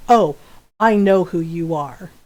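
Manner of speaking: put-on like a mom catching a kid out; stern mom tone. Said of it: "I got the mom tone".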